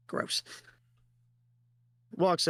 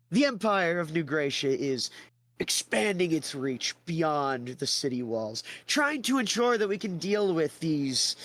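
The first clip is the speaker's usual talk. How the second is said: higher, slow pompous salesman; grand pitch; 5 semitones higher, slower than usual. Acted. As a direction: sell the empire with vain grandeur. Theodore pitches the empire.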